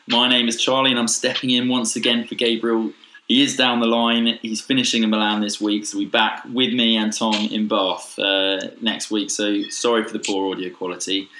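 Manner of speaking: hoarse, hungover croaky voice; rough croaky morning-after voice. Real, not acted. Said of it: "you're sounding a little bit, uh, croaky".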